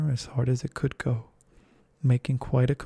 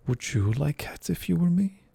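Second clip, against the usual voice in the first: shrill passionate; 4 semitones higher than usual. Acted. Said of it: "in a shrill, passionate voice".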